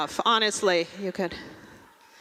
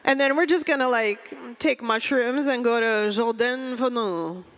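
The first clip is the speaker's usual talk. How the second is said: pretentious fake French. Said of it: "She goes".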